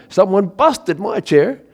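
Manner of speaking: put-on high, loud, slow Baby Bear wail; high, slow Baby Bear complaint. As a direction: whine it out like a heartbroken little bear. Baby Bear voiced in story.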